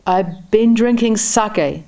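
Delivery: put-on high, slow drunken bellow. A narrator's reading. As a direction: bellow it back at him. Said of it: "the labourer bellowed back".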